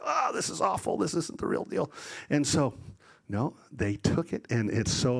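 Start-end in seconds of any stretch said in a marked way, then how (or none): 0.0-1.9 lightly voiced dismay, higher at first; a softer, mock complaint from the waiter; imagined disgusted waiter. Servants imagining the waiter tasting it, lightly acted dismay. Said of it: "when he tastes it, he's gonna".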